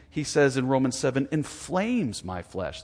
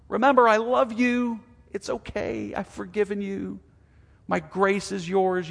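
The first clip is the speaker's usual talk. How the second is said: higher-pitched, earnest reassurance; reassuring God; 6 semitones higher than usual. Acted. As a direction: voice God comforting a struggling child. God reassures believer, acted.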